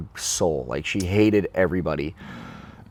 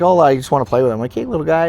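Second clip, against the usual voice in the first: playful pet talk; 5 semitones higher, 3 dB louder, faster than usual. Retold or imitated. Playful talk to a caught mouse.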